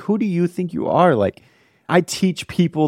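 high, offended mock retort; retold indignation. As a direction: snap it back, a touch hammed-up. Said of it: "I was so mad".

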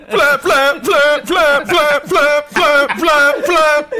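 high, loud flapping bird call; wing flapping. Pretend. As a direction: shout each flap high like a bird. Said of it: "Here's a new character".

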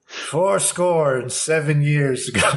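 slow, solemn speech recitation; grand oration. Pretend. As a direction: orate like Lincoln.

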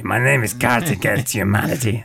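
put-on voice of a card game; lightly voiced talking card game; board game voice. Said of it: "sounds more like, um, Cards Against Humanity".

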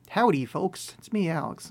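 put-on half-hearted Southern accent; bad cowboy accent. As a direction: try out a folksy cowboy greeting, badly. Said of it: "No, it's terrible".

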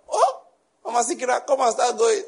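high mocking laugh through the words; laughing dismissal. Mother laughing the witch-accusing neighbor away. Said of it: "She started laughing and told the woman".

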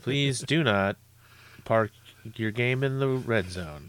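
slow PA announcer voice; airport announcement. Pretend.

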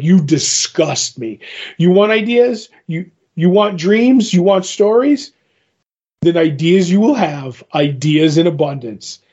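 stern anger. Acted. Morpheus rebukes the writer.

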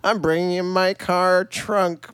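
lightly voiced old lady, low and mocking. Co-host mocking what counts as a movie, lightly voiced old lady. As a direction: mimic your co-host with a hint of old lady. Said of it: "Is that like an old lady voice?".

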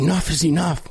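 high, lofty mock-speech voice; hammed-up politician delivery; mock presidential speech. Mimics Biden-style speech.

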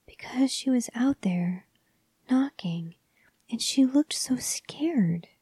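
put-on hushed, breathless child's whisper; frightened whispered confession. A narrator's reading. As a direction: whisper it like a scared little boy. Frightened child's account at night.

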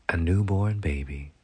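ordinary delivery

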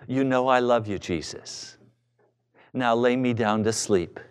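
very low, droning complacent prayer; mock sleepy, low-pitched praying. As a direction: mumble a prayer with no urgency.

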